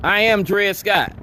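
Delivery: slow, weighty, each word set down; slow declaration. Real, not acted. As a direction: proclaim it like a verdict. Slogan returns.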